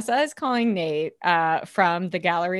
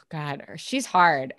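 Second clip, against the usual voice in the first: slow, sighing mock singer; a sigh, then a slow mock impression; imitating Kelly Cutrone; 4 semitones lower, slower than usual. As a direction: drag it out like a tired diva. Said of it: "She'd be like".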